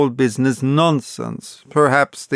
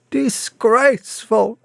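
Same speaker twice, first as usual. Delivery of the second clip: indignant exclamation; 9 semitones higher than usual. A narrator's reading. Bunting within, indignant.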